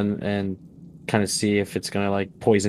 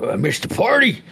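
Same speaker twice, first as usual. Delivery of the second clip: higher, louder mock dismay; disappointed warrior; 11 semitones higher, 4 dB louder than usual. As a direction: whine it like you arrived too late. Rex voiced, disappointed.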